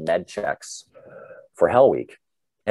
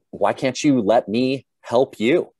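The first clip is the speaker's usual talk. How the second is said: higher, slow mock exasperated plea; pleading instructor; 4 semitones higher, 4 dB louder, slower than usual. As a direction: draw it out slowly, imitating an exasperated instructor. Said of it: "He's like".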